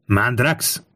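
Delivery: restrained call to a soldier; understated narrated shout. A narrator's reading. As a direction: summon your man by name. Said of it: "oda kiáltott az embereinek".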